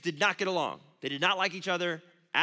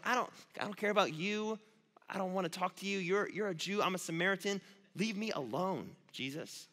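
a rapper's attitude; 4 dB quieter than usual. Retold or imitated. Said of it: "I hear a rapper's voice in my head".

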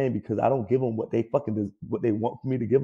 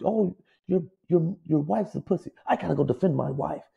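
mock offended player; 5 semitones higher than usual. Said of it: "words from people".

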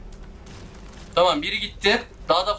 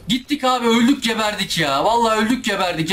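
dismayed outburst; 4 semitones higher than usual. Real, not acted. Player hit, thinks he is dead.

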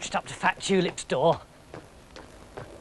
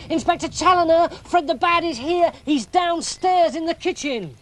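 excited calling; 8 semitones higher than usual. A narrator's reading. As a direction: tell the policeman in a rush of excitement. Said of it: "Fat Tulip shouted".

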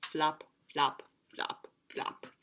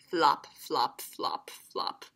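lower, then whispered softly; fading to whisper; 7 semitones lower, 6 dB quieter, slower than usual. A narrator's reading. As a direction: let the flops fade away. Sound effect, fading.

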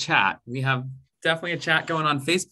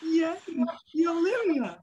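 smooth onset; 10 semitones higher, 4 dB quieter than usual. Shown as a demonstration. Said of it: "Our smooth".

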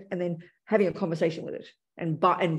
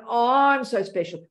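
mock self-importance; 3 semitones higher, 3 dB louder, slower than usual. Shown as a demonstration.

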